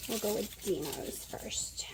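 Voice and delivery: slow hushed whisper. Real, not acted. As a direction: breathe it out under your breath. Aside while cooking.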